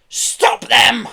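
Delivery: high, loud shrieked command; shrieking. A narrator's reading. Pelly as the Kellys escape, shrieking. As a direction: shriek for them to be caught. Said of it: "shrieked Pelly".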